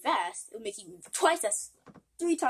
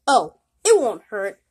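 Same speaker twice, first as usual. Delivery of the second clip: hysterical laugh; 12 dB louder than usual. Acted. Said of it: "are you laughing like that?".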